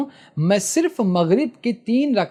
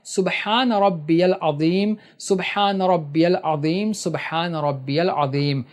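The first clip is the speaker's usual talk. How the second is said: slow tasbih; slower than usual. Shown as a demonstration. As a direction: recite it slowly three times, fading at the end. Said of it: "تسبیح پڑھنا ہے".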